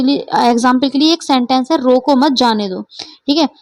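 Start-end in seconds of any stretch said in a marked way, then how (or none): 1.8-2.8 group रोको मत as one phrase; pause after मत. Shown as a demonstration. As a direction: drop the pitch on जाने दो. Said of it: "हमने अल्प विराम यहाँ लगाया".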